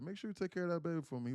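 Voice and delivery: high, pleading grandmother voice; imitated grandmother. Grandmother repeating her request to her son, imitated plea.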